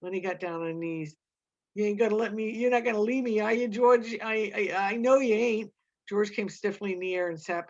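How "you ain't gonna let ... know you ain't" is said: pleading. Acted. On his knees, pleading.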